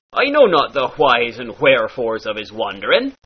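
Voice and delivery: "whys" and "wherefores" breathed as hw; pirate hw. Shown as a demonstration. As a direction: push air through each "wh". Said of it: "turns into".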